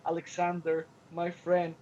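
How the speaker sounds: low, loving address to a friend; passionate and loving. Retold or imitated. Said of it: "candor and passionate and loving".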